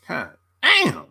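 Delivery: usual speaking voice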